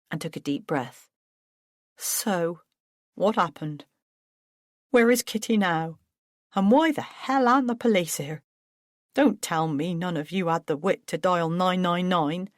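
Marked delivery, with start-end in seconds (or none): 2.0-12.5 rising, demanding middle-aged man; lightly voiced anxious brother; Paul, agitated. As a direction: fire off questions at the others.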